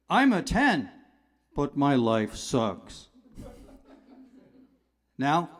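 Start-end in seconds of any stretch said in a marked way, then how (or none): 0.1-3.1 gloomy number. Acted. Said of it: "Here's a negative number".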